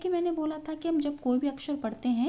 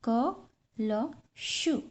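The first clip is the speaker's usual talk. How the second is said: slow blending; much slower than usual. Shown as a demonstration. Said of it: "blending letters slowly".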